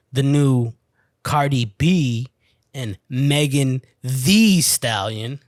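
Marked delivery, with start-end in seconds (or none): 3.1-5.4 "Megan Thee Stallion" said slowly with "Thee" drawn out and stressed. Shown as a demonstration. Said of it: "You gotta say it like that".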